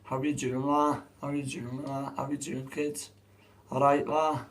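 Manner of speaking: lightly put-on English lad accent; attempted English accent. Streamer greeting lads and kids, attempted English accent. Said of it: "He ain't good at speaking English".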